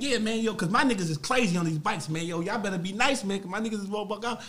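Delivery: lightly cocky boast; talking shit. Retold or imitated. Speaker bragging about his crew, lightly cocky. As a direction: brag with easy swagger. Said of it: "So I'm talking like".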